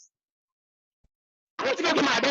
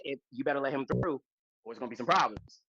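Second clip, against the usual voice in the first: intercom voice; 10 semitones lower, 5 dB quieter than usual. Retold or imitated. Voice over intercom.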